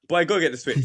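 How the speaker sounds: offhand imitation of a father's order; casual. Father casually sending his son for the switch, offhand. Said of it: "he says it so casually".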